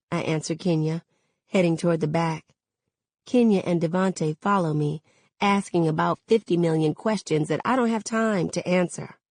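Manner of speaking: usual speaking voice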